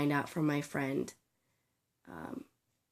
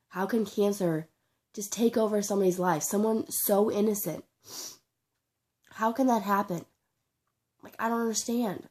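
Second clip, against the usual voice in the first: real grief, pitch climbing higher; anguished disbelief; 5 semitones higher than usual. Real, not acted. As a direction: plead higher for an answer, upset and bewildered. Grieving grandfather, questions how cancer happens.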